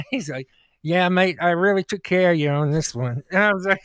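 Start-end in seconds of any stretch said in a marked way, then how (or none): 0.8-3.2 mock Australian doctor voice, louder; hammed-up Australian accent, mate and all. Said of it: "you trying to do an Australian accent".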